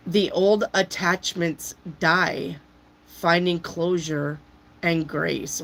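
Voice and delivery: slow, spooky reading of a card; slow dramatic reading. Acted. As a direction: read it like an ominous prophecy.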